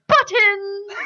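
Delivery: high-pitched, hammed-up orc cry; crazy orc outburst. Orc jumps out of the bushes, absurd high cry. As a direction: burst out like a deranged orc. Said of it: "he would just jump out of".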